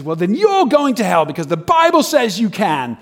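high-pitched mock street-preacher ruling; imitated soapbox condemnation; condemning preacher. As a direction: pronounce judgment, punching the key words. Street preacher repeats his judgment.

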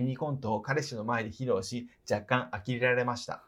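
even, measured read-aloud voice; reading a letter aloud. Real, not acted. Host reading out a trip report to the person it is about, read-aloud voice. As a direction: read it out like a written travel report.

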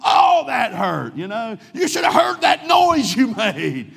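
high, loud laughing taunt; laughing friend taunts boy on ground; mocking friend. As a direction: jeer at him through laughter. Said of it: "you know what he did".

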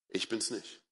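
very soft and low; quiet divine reply. Acted. God answering a self-accusing believer, quiet divine reply. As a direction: answer softly, almost under the breath.

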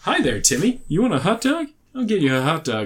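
chirpy imitation of an American guy, pitch swooping up; American accent. Imitated American guy offering Timmy a hot dog, American accent. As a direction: put on a folksy American voice. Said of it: "he plays an American guy".

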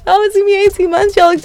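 mock disbelief. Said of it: "I said".

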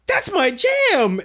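high, loud, drawn-out squeal of excitement; excited outburst. Retold or imitated. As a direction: belt it out like your favorite song came on. Acts out her sudden outburst.

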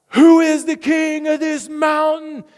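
high, loud, slow shouted question; rallying shout to the crowd; yelled call-out. Retold or imitated. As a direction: call it out across the mountain. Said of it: "He yells out".

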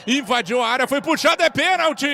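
excited penalty call. Real, not acted.

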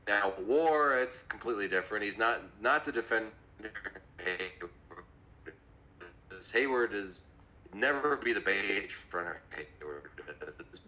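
garbled underwater connection. Real, not acted. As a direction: voice bubbling as if underwater. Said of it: "it sounds like you're underwater".

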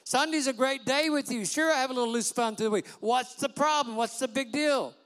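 mock whiny, carefree pleading; careless churchgoer. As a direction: play the careless believer brushing it off.

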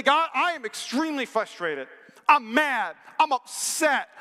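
frustrated complaint. Acted. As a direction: model an exasperated prayer of complaint. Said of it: "Complain to him".

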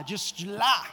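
chuckling through the words; lightly laughing repeat. Real, not acted. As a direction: laugh it off as a joke.

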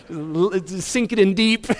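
slow, relishing mock threat; mock menace. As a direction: draw it out, relishing the squeeze. Acted spiteful hug of sister.

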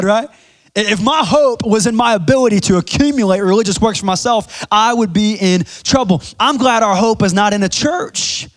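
fired-up pastor preaching. Acted. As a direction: preach it out to the congregation. Preaching at full force.

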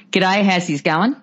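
a hint of broad Australian, like a friendly greeting; mock Australian accent. Mrs Danvers greeting the new Mrs de Winter, light mock Australian accent. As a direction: play the housekeeper lightly as an Australian. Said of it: "met the new Missus De Winter and went".

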